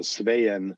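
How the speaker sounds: "Svein" said as two syllables, "svay-en"; Norwegian name. Shown as a demonstration. Guest showing the hosts how his name sounds at home. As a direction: open "Svein" on an A sound, then glide into a short E. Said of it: "two E's are pronounced separately as an A and an E".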